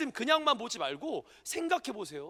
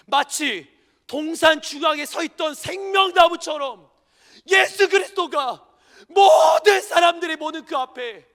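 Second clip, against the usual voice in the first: much louder slow proclamation; climactic preaching; 6 semitones higher, 10 dB louder than usual. Acted. Pastor preaching Christ's shame to the congregation, thundering. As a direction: build it to a thundering peak.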